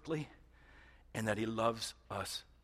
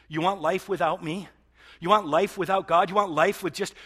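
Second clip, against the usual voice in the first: voicing God; 7 semitones higher, 11 dB louder than usual. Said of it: "God is gonna say".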